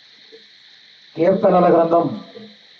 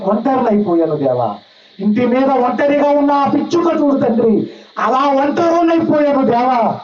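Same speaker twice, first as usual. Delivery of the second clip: weeping prayer; 3 semitones higher than usual. Shown as a demonstration. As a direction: cry out to God like a lonely sparrow. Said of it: "ఇలా ఏడవాలండి". (దేవునికి మొరపెట్టుకునే స్వల్ప ఏడుపు ప్రార్థన)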